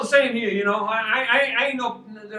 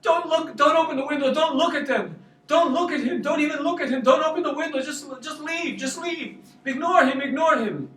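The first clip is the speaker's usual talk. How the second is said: higher, hurried warnings, a mildly imitated fright; retold scared pleading; 4 semitones higher than usual. Frightened missionary in the car urging the driver to ignore the man, mildly imitated fear. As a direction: mimic a nervous missionary begging him not to look. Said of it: "fearful, really scared".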